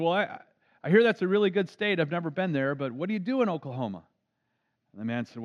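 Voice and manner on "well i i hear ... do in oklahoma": lightly voiced old gentleman, higher and louder; a hint of a chatty Southern greeter; friendly old Southerner. Old man greeting strangers at their table, higher and louder.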